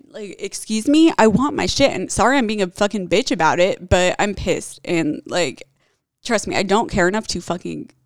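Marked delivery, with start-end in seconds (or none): 0.1-4.8 louder, indignant demand; pissed retort. Retold or imitated. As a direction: snap back at the cops. Her retort to the officers.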